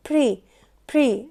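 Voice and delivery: "pre" said firmly by itself, as in PREZ-ent; strong syllable. Shown as a demonstration. Teacher showing the noun's strong syllable, firm "pre". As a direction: isolate "pre" with force. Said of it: "ده نطقته بقوه".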